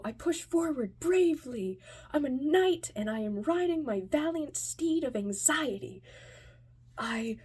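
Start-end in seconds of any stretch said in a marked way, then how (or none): 0.0-6.0 higher, louder grand declaiming; mock-heroic. Anxious kid heading back into the bar, mock-heroic. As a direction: proclaim it like a knight charging in.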